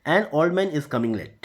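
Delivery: slow, careful example sentence; slow example read. Shown as a demonstration. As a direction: read the example slowly and clearly. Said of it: "तो सीधा simple सा है".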